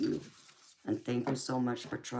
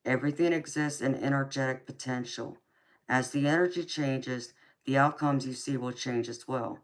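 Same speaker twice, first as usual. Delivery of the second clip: card reading; 3 dB louder than usual. Acted. Reading the card's message aloud.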